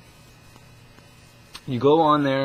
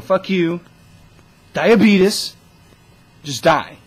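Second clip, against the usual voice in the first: higher, much louder outburst; mock shout; 9 semitones higher, 11 dB louder, much slower than usual. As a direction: yell it like a furious curse at the screen. Telling off the scammer, second take.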